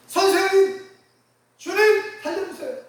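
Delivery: high, loud cry for help; desperate shout. Acted. Sinking Peter shouts to the Lord for help. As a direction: scream to be saved from drowning. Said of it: "하고 소리 질렀죠".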